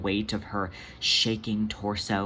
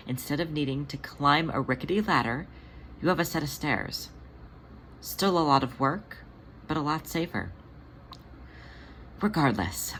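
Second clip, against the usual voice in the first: soft caring queen reassuring her scared companion; gentle reassuring Jelly; 2 semitones higher, 4 dB quieter than usual. Acted. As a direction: soothe a frightened friend softly.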